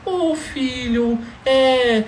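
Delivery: put-on slow, drawn-out little kid voice; childish talk. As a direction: drag each word out like a small child. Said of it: "Não pense que ela vai falar".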